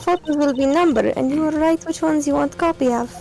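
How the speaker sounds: put-on deadpan Russian accent; calm Russian bartender. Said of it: "stuck in a Russian accent".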